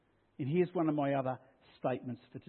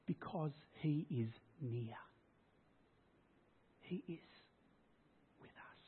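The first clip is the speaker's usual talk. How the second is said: softer and softer until barely there; hushed; 13 dB quieter than usual. Acted. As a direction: fade to a near-silent hush. Preacher shows God's whisper.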